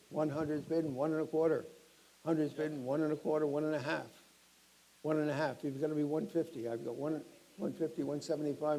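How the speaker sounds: brisk auctioneer calling out bids. Acted. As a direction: rattle off the bids to the room.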